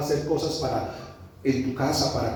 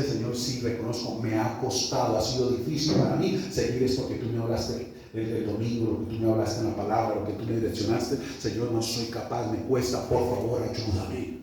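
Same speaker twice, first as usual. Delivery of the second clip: confesión humilde, en voz baja y grave; súplica a Dios; 4 semitones lower, 3 dB quieter than usual. Acted. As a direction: lower your pitch and humbly plead for help. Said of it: "Eso es clamar". (súplica humilde en voz baja)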